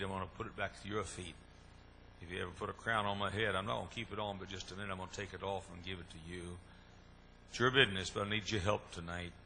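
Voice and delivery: hushed, earnest pulpit prayer. Acted. Opening prayer before sermon.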